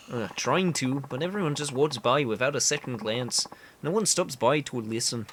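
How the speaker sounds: earnest candidate in bad Canadian; awful Canadian accent. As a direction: campaign talk with a badly faked Canadian accent. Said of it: "I know the accent is awful".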